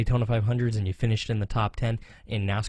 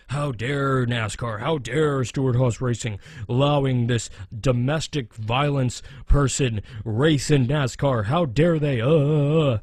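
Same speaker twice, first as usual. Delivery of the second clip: mock outrage; slower than usual. Mocking outraged fans demanding nascar ban him, indignant. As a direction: ham up the offended critics' How dare. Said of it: "There are a number of groups out there who are saying".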